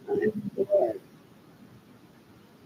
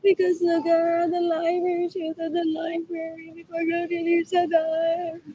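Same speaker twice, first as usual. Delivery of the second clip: louder, slowed mock voice of the siblings; 4 semitones higher, 3 dB louder than usual. Mocking siblings' fake dismay over Gloria Nilsson, loud mock voice. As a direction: parody their fake dismay. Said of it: "They're like".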